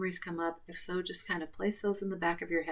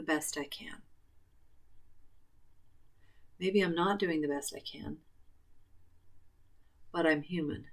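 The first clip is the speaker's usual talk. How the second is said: guided tapping script; 4 dB quieter than usual. Acted. Final tapping round.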